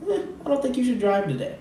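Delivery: high, fast mock robotic alert; mock phone notification. Comedian voicing a racist iPhone notification, high and fast. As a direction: rattle it off like a smug phone notification. Apple notification to Asian people.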